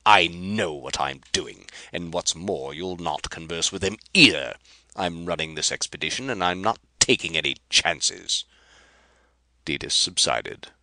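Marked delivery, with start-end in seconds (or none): 0.0-8.4 loud angry. Acted. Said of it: "roared Rapaju".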